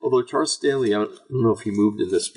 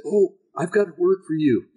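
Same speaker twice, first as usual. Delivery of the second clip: mock prophetic greeter; 8 semitones higher than usual. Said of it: "they'll walk up to people and say".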